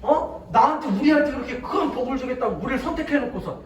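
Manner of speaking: acted indignant complaint to God; hammed-up outraged grumbling; mock uproar. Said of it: "막 난리가 났어요".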